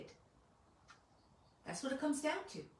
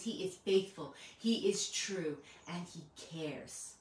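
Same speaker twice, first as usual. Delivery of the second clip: slow; slower than usual. Real, not acted. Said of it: "it's like a poem".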